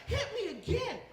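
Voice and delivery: high-pitched imitated female demand; woman's excited begging. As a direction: demand it as the worked-up lover. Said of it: "She's like".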